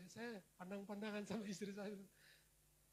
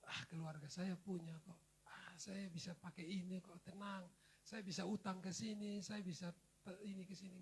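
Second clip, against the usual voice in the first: smug inner voice; 5 dB quieter than usual. Retold or imitated. Self-reliant inner thoughts.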